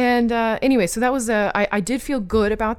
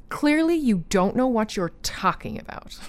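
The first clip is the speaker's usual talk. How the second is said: condescending; 5 semitones higher than usual. Retold or imitated. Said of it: "condescending tone".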